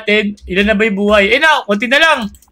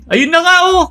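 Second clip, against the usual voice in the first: excited shout; 7 semitones higher than usual. Real, not acted. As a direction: shout it out, thrilled. The boss appears.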